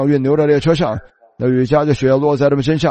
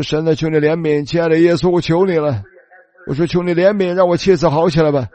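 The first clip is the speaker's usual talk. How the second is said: pleading prayer; 3 semitones higher than usual. Retold or imitated. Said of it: "我在祷告".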